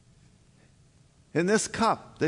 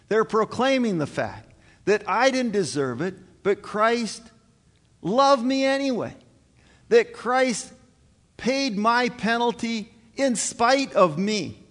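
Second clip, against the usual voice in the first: building from firm to loud, higher passion; rising preacher's cry; 6 semitones higher, 4 dB louder than usual. Real, not acted. Pastor telling the congregation Christ loved them, building to a loud cry. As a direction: preach it out, swelling louder and higher.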